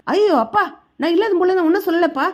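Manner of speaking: high, fast protest of innocence; pained protest. Acted. Son denies the accusation to his father, fast high protest.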